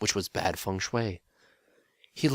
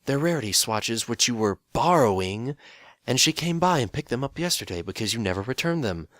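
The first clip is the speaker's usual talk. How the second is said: raised voice calling back; called out; 4 semitones higher, 5 dB louder than usual. Acted. Phil answering the Demon King from across the house, loud. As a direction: call back up the hall. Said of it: "Phil called out".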